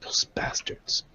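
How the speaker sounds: whispered curse; whispering. Acted. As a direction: hiss it quietly at them. Hushed curse at bugs.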